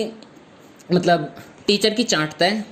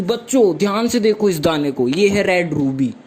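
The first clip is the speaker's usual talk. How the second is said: grand reveal. Retold or imitated. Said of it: "जैसे madam ने कोई नया आठवां अजूबा ढूंढ लिया".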